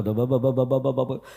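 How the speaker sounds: mimicked run of b-b-b syllables; imitated gabbled recitation. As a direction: babble like someone reading unintelligibly. Mimics unintelligible reading aloud.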